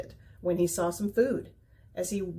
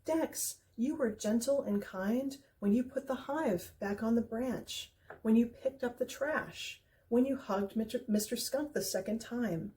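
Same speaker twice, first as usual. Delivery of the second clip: exclaiming; 3 semitones higher than usual. Acted. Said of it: "Baby Bird exclaimed".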